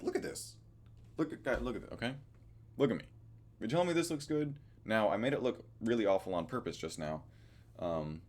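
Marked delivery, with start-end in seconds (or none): 0.0-0.6 whispered aside. Retold or imitated. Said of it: "I'm like". 1.2-4.5 rising, louder disbelief; you can't be serious, pushing it higher; incredulous. Retold or imitated. Vlogger scoffing at a friend about his hair, incredulous and louder. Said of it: "I'm like".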